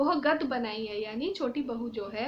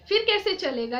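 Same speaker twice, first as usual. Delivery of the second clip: worried, raised question; 6 semitones higher, 5 dB louder than usual. A narrator's reading. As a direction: ask it anxiously, voice lifted. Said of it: "छोटी भाभी चिंता से". (चिंतित होकर, ऊँचे स्वर में)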